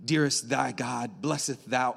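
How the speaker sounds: hamming up thee and thou piety; gentle parody of formal prayer; mock King James prayer. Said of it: "speaking King James".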